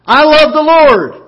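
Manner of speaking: shouted high and slow with joy; exclaimed. Shown as a demonstration. Preacher shows the church an exclamation-point faith, shouting joyfully. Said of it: "we need to get an exclamation point".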